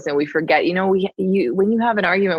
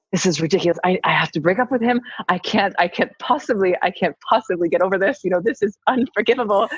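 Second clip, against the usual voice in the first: mock-dramatic outrage, little raised; so angry. Guest replaying her fuming thoughts about her partner, indignant. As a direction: hammer the stressed words in retold indignation. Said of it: "I was so angry".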